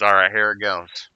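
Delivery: lightly imitated Southern old-timer; a hint of put-on Southern accent; thick Southern accent. Old vet starting his joke, mild Southern accent. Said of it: "had, like, an extremely thick Southern accent".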